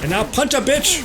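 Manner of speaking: high, loud cartoon bear threats; Yogi Bear voice. Threatening the enemy as Yogi Bear, loud and cartoonish. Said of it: "I'm Yogi Bear".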